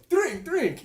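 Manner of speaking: mock-bossy double shout; commanding shout. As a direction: order them to drink like a bossy bar owner. Bar owner commanding them to drink.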